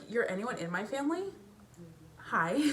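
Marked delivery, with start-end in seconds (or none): 2.2-2.6 shy whispered hi. Real, not acted.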